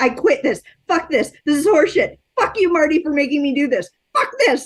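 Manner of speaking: imitating a panicked pre-show tantrum; Robin Williams rant. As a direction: grumble and swear like a comic dreading the stage. Retold Robin Williams backstage rant.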